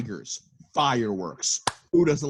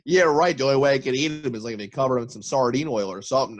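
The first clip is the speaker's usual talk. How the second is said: hammed-up smug Carol voice; mocking Carol; 2 semitones higher, 3 dB louder, faster than usual. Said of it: "Carol's like".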